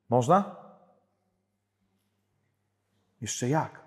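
John Paul II. Retold or imitated. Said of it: "mało Jana Pawła drugiego oglądacie".

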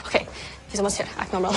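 whispering. Acted. Whispering before he arrives.

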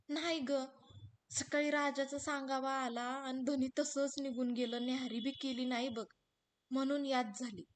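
lightly voiced sad village wife; wistful young wife. हिरा पतीची आठवण सांगते. (धन्याच्या आठवणीने हळवी झालेली हिरा)

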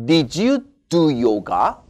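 slow question, rising at the end; teacher reading a question; slow model reading. Shown as a demonstration. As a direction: model the question slowly for students. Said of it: "과거니까".

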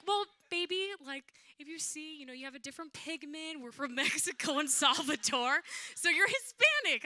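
mother gently explaining to her daughter; patient mom. Retold or imitated. Mom answering her child.

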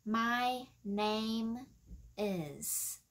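"my name is" drawn out word by word; slow demonstration. Shown as a demonstration. Teacher modelling a phrase for learners, slow demonstration. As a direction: pause before a long, falling "is". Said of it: "mình sẽ nói là tên của tôi là".

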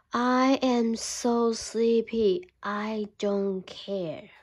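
very slow, drowsy bear; sleepy bear. Acted. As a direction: mumble it like a bear half asleep. Bear rubbing his eyes.

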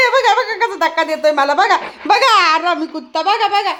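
talking through real laughter; laughing. Real, not acted. Woman laughs as her dog keeps pushing her. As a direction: laugh as you point it out.

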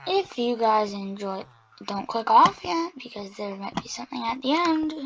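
slow, stiff robot voice. Real, not acted. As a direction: drag it out like a robot. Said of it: "why am I talking like a robot".

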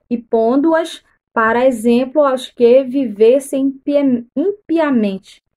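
slow, deliberate Bible reading; measured read-aloud with weighted words; scripture reading. Acted. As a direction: read the verse out solemnly, phrase by phrase.

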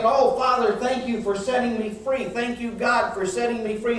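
re-enacted prayer of thanks, pitched high; high, pleading gratitude, lightly acted; fervent thanks. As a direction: thank God like a new convert. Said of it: "And I was saying".

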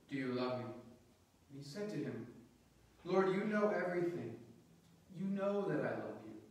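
measured, solemn Gospel reading; scripture reading. Acted. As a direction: proclaim the Gospel with deliberate pauses between phrases.

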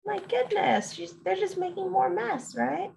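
high, amazed my goodness; amazed exclamation. Real, not acted. Exasperated aside to listener.

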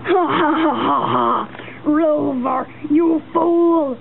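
slow gloating villain laugh; sneering panto villain. Acted. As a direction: cackle like a pantomime baddie. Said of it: "in an evil way".

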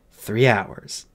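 doubtful echo. Acted. Fairy weighing the time over the patient, subdued doubt. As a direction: repeat it doubtfully, without lift.

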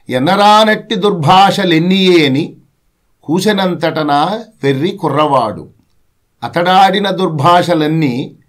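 poem recitation. Acted.

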